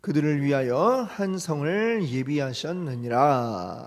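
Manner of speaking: loud, measured Bible reading; scripture reading. Acted. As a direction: read the verses solemnly to the congregation. Reads scripture aloud.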